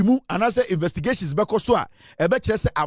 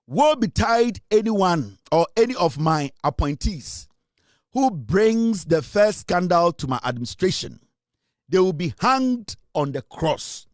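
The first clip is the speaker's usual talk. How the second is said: slow, weighty quoting of a stern warning; quoting the President; slower than usual. Retold or imitated. Radio host quotes the President's anti-corruption warning, slow and solemn. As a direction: spell out the President's warning slowly and gravely. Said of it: "The President said".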